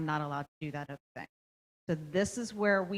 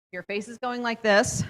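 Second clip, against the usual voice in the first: "Your face is going like this" said a bit higher and louder, gently naming the feeling; empathetic to a child; 4 semitones higher, 4 dB louder than usual. Shown as a demonstration. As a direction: kindly point out "Your face is going like this" to an upset kid. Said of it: "You're showing empathy".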